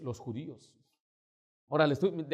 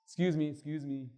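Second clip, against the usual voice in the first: measured, unraised brush-off; Trump. Retold or imitated. Pastor putting off an interrupting American, restrained brush-off. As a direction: hold the floor without raising the voice. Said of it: "he aprendido algunas cosas positivas de Trump".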